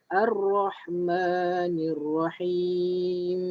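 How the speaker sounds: slow, drawn-out tajwid recitation; slow Quran recitation. Shown as a demonstration. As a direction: recite it slowly for students to follow. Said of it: "ayat nombor tiga". (bacaan tajwid perlahan)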